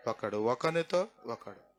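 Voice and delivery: ఒకనితో stretched slowly, low and falling; deliberate low fall on ఒకనితో; slow emphatic completion. Shown as a demonstration. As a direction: spell out ఒకడు, ఒకనితో ఒకడు word by word, dropping low. Preacher completing the phrase slowly.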